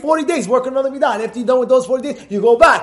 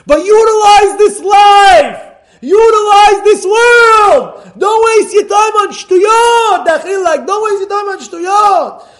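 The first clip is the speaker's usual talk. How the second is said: high, loud, slow impassioned preaching; 10 semitones higher, 11 dB louder, much slower than usual. Real, not acted. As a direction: thunder it at the congregation. Preaching at full force.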